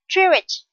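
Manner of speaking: JEwish, first syllable stressed. Shown as a demonstration. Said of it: "Jewish with the stress on the first".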